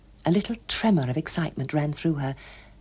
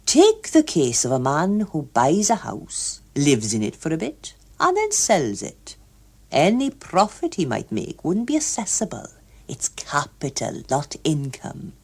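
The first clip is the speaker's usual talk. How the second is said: lightly voiced pompous official; lecturing official. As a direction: explain it like a keen clerk. Hughes Evans explains.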